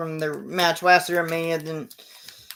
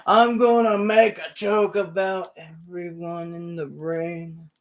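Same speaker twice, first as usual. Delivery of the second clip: slow, louder mocking taunt; 3 semitones higher, 6 dB louder, slower than usual. Elias taunting the wrestlers, lightly voiced mock taunt. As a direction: tease the whole ring. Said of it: "he goes".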